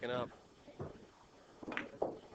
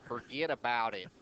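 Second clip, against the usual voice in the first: put-on New York accent; 4 dB louder than usual. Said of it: "You don't do a New York accent".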